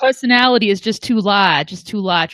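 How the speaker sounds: put-on light Boston accent, dropped r. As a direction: say it like a Boston radio host. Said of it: "my car talk Boston accent".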